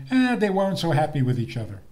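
"Eh" shrugged off, fast; dismissive quote. Retold or imitated. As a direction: wave it away like a skeptic. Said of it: "Some people say".

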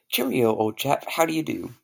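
put-on posh British accent. A posh Englishman greets an American, in a British accent. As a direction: play the proper English gent. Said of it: "write me a script between an American and a British character".

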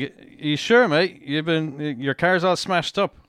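poor imitation of an Australian policeman; terrible Australian accent. Policeman questioning driver about wrecked car, bad Australian accent. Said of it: "That's a terrible accent".

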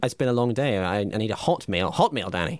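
rising, indignant complaint about the hot meal; hammed-up grievance to his co-host; mock outrage. Skit angry co-host.

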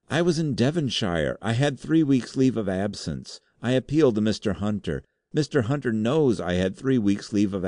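high, desperate pleading voice; terrified denial. Acted. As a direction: protest innocence in panic. Terrified clerk denies guilt.

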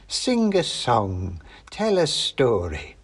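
slow, drawn-out crone order; the witch demands entertainment; commanding old witch. Acted.

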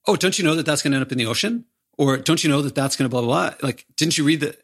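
slightly rising, know-it-all lecturing; mild condescending eco-lecture. Retold or imitated. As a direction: scold them like they should know better. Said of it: "you can hear Josh's tone of voice when he says".

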